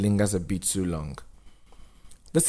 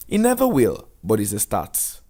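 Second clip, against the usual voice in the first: encouraging social worker; 3 dB louder than usual. Acted. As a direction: reassure him kindly. Missus Dube voiced.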